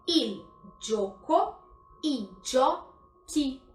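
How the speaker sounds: il gioco, idioti spoken very slowly, hard k kept in idioti; Italian pronunciation. Shown as a demonstration. Teacher summing up the rule for students, very slow pronunciation. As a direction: model singular and plural slowly, syllable by syllable. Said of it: "Então".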